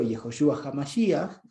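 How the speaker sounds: "Yehoshua HaMashiach" said slowly and carefully in Hebrew; careful Hebrew name; Hebrew pronunciation. Shown as a demonstration. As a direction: spell out "Yehoshua HaMashiach" with Hebrew sounds, unhurried. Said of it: "en hebreo".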